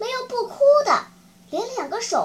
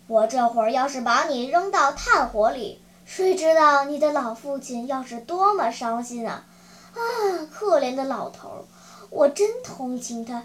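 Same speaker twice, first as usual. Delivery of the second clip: low, sighing puppet-master voice; a touch of gruff sympathy, pitched low; lightly voiced pitying ogre; 3 semitones lower than usual. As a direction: sigh with pity in a slightly lowered ogre voice. Ogre puppet master pities him.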